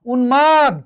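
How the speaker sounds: উন্মাদ with both ন and ম pronounced; clearly sounded ম. Shown as a demonstration. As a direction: sound the ম in উন্মাদ firmly after ন. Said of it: "উচ্চারণ হয়েছে".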